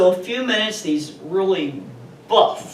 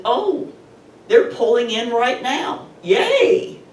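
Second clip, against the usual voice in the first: much higher, delighted squeal of relief; excited relief; 6 semitones higher than usual. Retold or imitated. Woman on the phone with police sees the cruiser arrive, excited. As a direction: cheer as the police car pulls in behind her.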